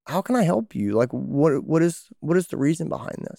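lightly played gentle question to the doctor; asking the doctor. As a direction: ask the doctor, curious and caring. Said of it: "ask 'em".

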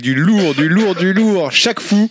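building to a high shouted title; hyped announcer. Acted. Presenting the month's releases to his cohosts, hyped shout. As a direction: sell the big release like a show host.

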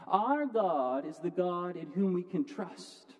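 slowed down, leaning on every word; slow emphatic restatement. Acted. Pastor restating his main point to the congregation, slow and weighty. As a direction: drive the key line home slowly.

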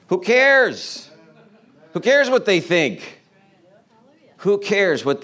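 emphatic retort. Real, not acted. Rhetorical retort to worries.

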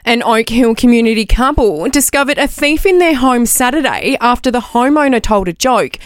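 measured TV news read; newsreader voice. Acted. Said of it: "the best newsreader voice".

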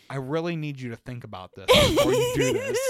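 loud, hammed-up retold plea; dramatic pleading. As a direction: build it into a comic prophecy of doom.

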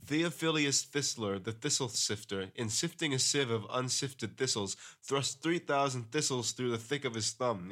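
careful, deliberate take of the tongue twister; a slowed-down, careful retake. Shown as a demonstration. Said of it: "Say that, say that one again, slow".

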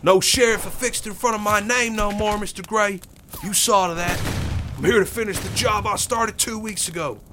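a hint of cold resolve; lightly voiced hard gunman. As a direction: tell him flatly why you came. Bill answers Quincy mid-gunfight.

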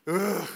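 acted groan of complaint; disgusted groan. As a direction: groan like a fed-up grumbler. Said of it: "complaining about God".

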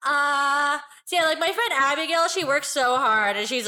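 put-on a small child making a speech; five-year-old voice. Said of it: "'Cause she sounds like she's five".

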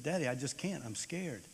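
put-on crying boy. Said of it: "And I started to cry".

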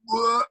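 imitating the veterans' retching "Whoa"; mock vomiting sound. Veterans mocking the seasick new guy with a retching sound. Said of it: "the sound effects".

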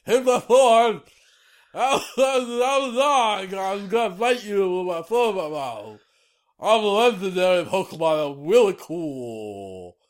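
high goofy dog voice; squeaky, silly sword dog voice; Zacian impression. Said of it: "the speaker was impersonating Zacian".

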